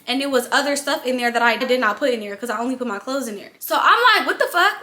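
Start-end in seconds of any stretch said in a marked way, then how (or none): 4.3-4.8 shocked outburst. Retold or imitated. Finding cotton in the washer.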